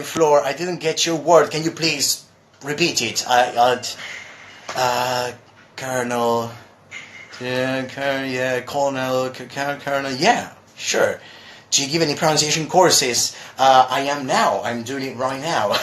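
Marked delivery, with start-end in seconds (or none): 5.8-10.1 Colonel said as KER-nel; careful demo of Colonel; pronouncing Colonel. Shown as a demonstration. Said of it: "how should it be pronounced".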